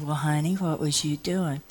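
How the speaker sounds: soft, kindly question; lightly acted coaxing; gentle questioning.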